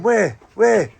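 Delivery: high, loud, falling cries; imitated bafflement. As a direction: mimic someone searching blindly. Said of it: "He's going".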